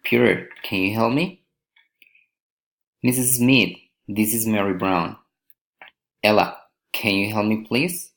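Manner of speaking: names set apart, questions lifting at the end; rising address intonation. Shown as a demonstration. Teacher models direct address, rising at the end. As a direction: address "Peter" or "Ella", then rise on "me" or "please". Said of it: "raising intonation".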